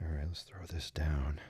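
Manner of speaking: soft, calm, gentle whisper.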